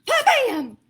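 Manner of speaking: high, loud burst with a laugh; explosive pa-bam. A narrator's reading. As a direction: burst out like a volcano. Volcano explodes.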